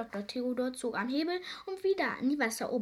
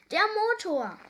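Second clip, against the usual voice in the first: loud, high exclamation of dismay; big storybook alarm; alarmed cry; 10 semitones higher, 8 dB louder than usual. A narrator's reading. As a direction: cry out as disaster hits. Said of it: "rief Seepferdchen nun".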